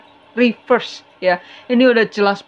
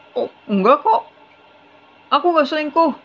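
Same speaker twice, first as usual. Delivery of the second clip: higher, put-on voice of a husband faking innocence; the husband acting wounded when his wife asks about the affair, higher and put-on; husband's innocent denial; 8 semitones higher than usual. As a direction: play the cheating husband brushing it off sweetly.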